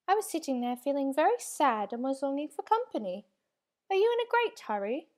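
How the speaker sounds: a tiny creature longing for company; lonely small creature. A narrator's reading. Small creature voiced in story.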